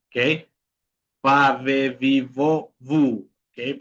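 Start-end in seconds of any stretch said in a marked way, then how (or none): 1.2-3.3 "Va, ve, vi, vo, vu" with lip on teeth; labiodental V. Shown as a demonstration. Teacher reminding a student of the V, labiodental v in "Va, ve, vi, vo, vu". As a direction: buzz each v in "Va, ve, vi, vo, vu". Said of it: "un labio dental".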